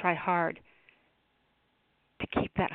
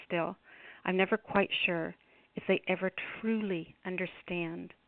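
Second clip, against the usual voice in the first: poem reading. Acted. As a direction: read it like a spoken-word poem. Reads her own poem aloud.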